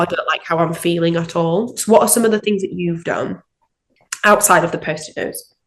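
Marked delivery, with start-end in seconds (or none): none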